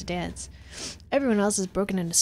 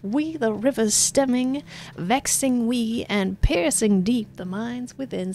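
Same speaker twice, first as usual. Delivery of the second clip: higher, slow grand recital; pompous poem reading; 4 semitones higher, slower than usual. Acted. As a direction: roll out the verse grandly. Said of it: "reads from his hollow palm".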